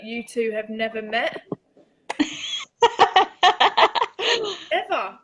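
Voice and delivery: high burst of laughter; laughing disbelief. Real, not acted. Can't believe they never met.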